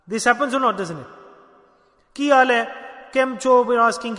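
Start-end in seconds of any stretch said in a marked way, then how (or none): 2.1-3.6 louder and higher, breezy hello; hammed-up offhand hello to a friend; mock casual greeting. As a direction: toss off the greetings like a careless passer-by.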